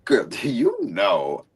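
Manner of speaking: slow breathy whisper with a laugh; teasing whisper. Real, not acted. Teasing her co-host about his trivia, whispered slowly with a laugh.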